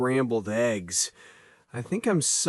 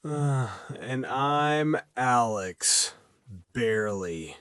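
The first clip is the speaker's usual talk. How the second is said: exhausted zombie voice. Acted. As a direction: drag every word out like a zombie. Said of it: "you sound like a zombie from a horror movie".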